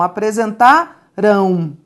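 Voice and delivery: apresentarão slowed, nasal ão held; nasal ending demo. Shown as a demonstration. Teacher shows the nasal ending students hear. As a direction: drawl the ão of apresentarão. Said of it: "a gente escuta um ão".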